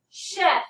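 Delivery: Chef said clearly with an initial sh sound; word to echo. Shown as a demonstration. Teacher gives the class Chef to echo, clearly modelled. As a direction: model Chef for echoing, sh at the front. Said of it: "Now, echo these words".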